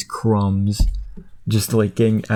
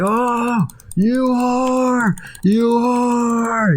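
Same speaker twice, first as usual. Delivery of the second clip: cursing potato; 13 semitones higher, much slower than usual. Retold or imitated. Potato thrown into boiling water, very high furious curse. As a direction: spit it at the cook as he falls. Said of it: "he's just like".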